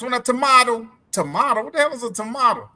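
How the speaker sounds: "tomato" said as toh-MAH-toh, imitating the sergeant; mock "tomato" with a long ah, like toh-MAH-toh; British tomahto. Imitating an army sergeant who says "tomato" as toh-MAH-toh. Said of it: "that man talked backwards as hell".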